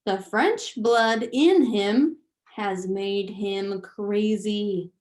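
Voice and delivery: slow, loud accusation; accusing father. Acted. Lester blames his wife, slow and loud. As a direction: jab out each word slowly. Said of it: "said Lester".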